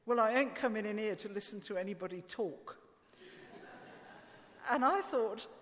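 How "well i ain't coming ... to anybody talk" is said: light, amateur attempt at a Cockney child; Cockney accent. Preacher retelling a boy's TV interview answer, light Cockney accent. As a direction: have a modest go at Cockney, dropping aitches. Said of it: "in this wonderful Cockney accent".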